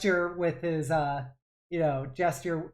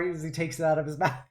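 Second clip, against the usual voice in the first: ordinary talk, nothing marked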